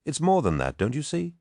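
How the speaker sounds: high-pitched, insistent appeal; urgent pleading. A narrator's reading. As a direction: press them to see it, voice climbing. Loken pleads with his comrades.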